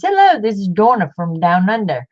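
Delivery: lightly put-on Australian accent; a friendly Australian greeting, lightly imitated; a hint of Australian in a cheery hello; Donna's Australian accent. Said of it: "if I do her Australian accent".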